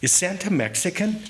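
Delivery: put-on high, loud child's voice asking; a small girl blurting it out for the room to hear; little girl's loud question. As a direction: pipe it up like a curious six-year-old. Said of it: "This is loud enough for three or four booths to hear".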